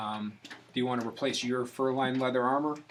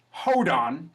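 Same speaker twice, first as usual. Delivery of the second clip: louder, higher sudden call; excited dwarf call; 4 semitones higher, 7 dB louder than usual. Acted. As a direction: dash off with a bright cry. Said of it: "One of the male dwarfs with the exquisite style goes".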